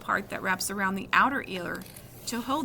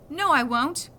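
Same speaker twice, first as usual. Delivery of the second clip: loud stubborn no; boy defying the doctor, louder; defiant refusal; 4 semitones higher, 7 dB louder, slower than usual. Acted.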